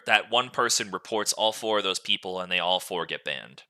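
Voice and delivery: usual speaking voice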